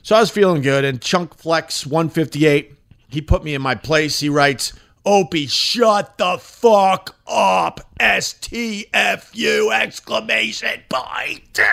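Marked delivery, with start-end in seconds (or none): 5.1-11.6 slow, drawn-out mock reading of an insult; mock hater voice. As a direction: spell out the insult slowly, mocking the sender.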